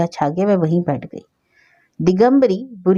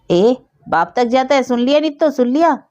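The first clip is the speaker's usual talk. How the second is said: shrieking, higher and louder outrage; loud outraged yell; 6 semitones higher than usual. Acted. Old woman yells to Nitto about the boy, outraged. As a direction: call out to the whole house in outrage. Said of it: "खूब जोर से चिल्लाकर बोली".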